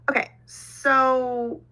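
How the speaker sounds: whispered aside; hushed aside to viewers. Real, not acted. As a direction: drop to a breathy whisper.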